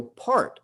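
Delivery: single out the word part with a pause round it; stress on part. Shown as a demonstration. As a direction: stress part slightly up, then let it drop. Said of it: "and I emphasize the word part".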